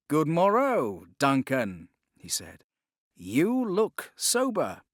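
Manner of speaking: a mentor teasing his student; Randall's voice. Acted. Randall greets Duncan.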